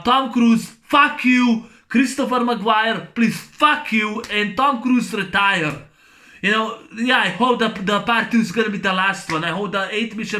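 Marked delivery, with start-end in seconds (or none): 0.0-5.9 angry rant. Real, not acted. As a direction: spit it out like a fed-up fan. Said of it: "this is a rant".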